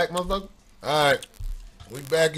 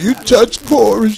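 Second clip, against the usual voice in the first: put-on elderly voice; 4 semitones higher, slower than usual. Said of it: "He sounded elderly than a motherfucker when he said".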